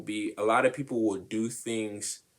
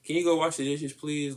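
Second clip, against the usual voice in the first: sweet request; 6 semitones higher, 4 dB louder than usual. Retold or imitated. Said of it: "or she's like".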